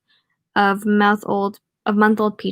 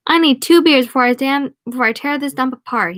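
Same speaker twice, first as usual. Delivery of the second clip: raised, higher voice for a demand; yelling at bartender; 5 semitones higher, 4 dB louder than usual. Acted. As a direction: call the order out across the bar. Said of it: "He yells at the bartender".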